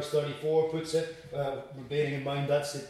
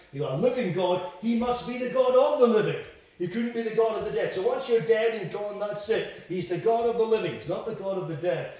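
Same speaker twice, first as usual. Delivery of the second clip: higher, louder, brisk and smug; mock Sadducee mantra; 5 semitones higher, 3 dB louder, faster than usual. Preacher mimicking the Sadducees' smug slogan. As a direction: rattle it off like a smug sectarian slogan. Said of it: "the Sadducees ... took this, uh, this mantra".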